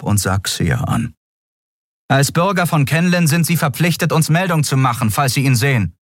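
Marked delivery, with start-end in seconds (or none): 2.1-6.0 high, formal duty-bound voice; official instruction. Acted. The officer instructing Xia to report him, high and formal. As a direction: lay down the rule like an officer.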